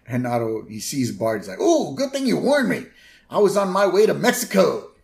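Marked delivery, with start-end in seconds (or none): 1.6-4.9 high, loud, spaced-out dude voice; stoner bus driver. Retold or imitated. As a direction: play a dopey surfer bus driver. Otto voiced in retold scene.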